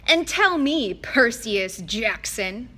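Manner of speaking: drawn-out mocking address; Mister D needling Percy, drawn out and mocking; mocking taunt. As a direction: sneer out the name slowly.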